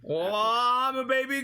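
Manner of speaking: put-on high, slow silly baby goose; squeaky childish goose character.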